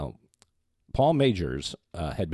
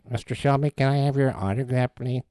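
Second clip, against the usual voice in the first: fan asking; 7 semitones higher, 5 dB louder than usual. Retold or imitated. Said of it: "when people come up and say".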